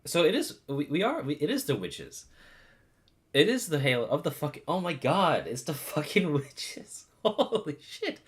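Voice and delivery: loud, low excited outburst; excited shouting. Real, not acted. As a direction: shout it out in disbelief.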